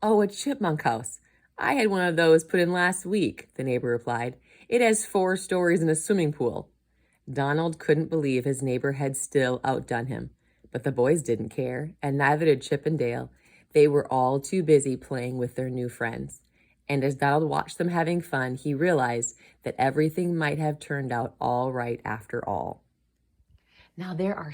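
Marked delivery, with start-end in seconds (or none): 0.0-3.5 higher-pitched, breezy boast; airily outdo the other person; lightly acted smug neighbor; one-upping neighbor. 4.7-6.7 lightly voiced boastful neighbor, higher; a hint of smug bragging; one-upping neighbor. 7.3-22.8 put-on animated storybook reading for children; projected, friendly storytelling; story narration. A narrator's reading.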